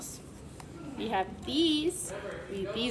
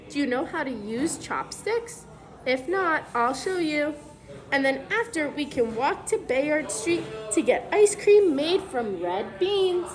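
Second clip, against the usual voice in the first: put-on clear, even storybook read-aloud for kids; reading to children; 3 dB louder than usual. Teacher reads the book to the class, storybook read-aloud voice.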